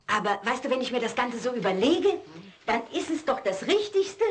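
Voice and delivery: usual speaking voice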